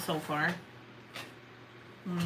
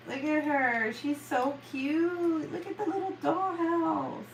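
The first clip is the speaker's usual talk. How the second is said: delighted gushing; 5 semitones higher, much slower than usual. Real, not acted. Excited showing off painting.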